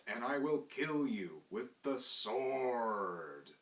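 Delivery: loud, slow pulpit bellow; bellowing preacher. Retold or imitated. Minister bellowing scripture at his congregation, loud and slow. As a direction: boom it out like a fire-and-brimstone minister. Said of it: "when he bellowed".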